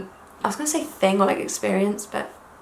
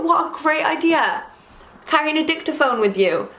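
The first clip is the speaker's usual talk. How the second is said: gushing; 7 semitones higher than usual. Retold or imitated. Retelling her gushing thought.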